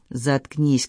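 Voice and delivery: ordinary delivery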